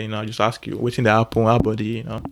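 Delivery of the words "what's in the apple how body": run-together Nigerian Pidgin greeting. Shown as a demonstration. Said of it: "it's called Pidgin English or Broken English".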